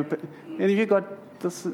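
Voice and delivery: rising into a laugh while teasing the crowd. Real, not acted. Pastor teasing the congregation, laughing. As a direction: tease them, then break into laughter.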